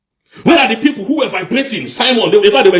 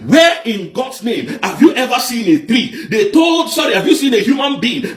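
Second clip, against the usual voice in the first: angry shout; 5 semitones higher than usual. Real, not acted. Angry rant at his audience.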